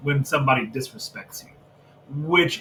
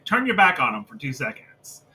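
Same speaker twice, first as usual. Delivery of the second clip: ordinary talk, nothing marked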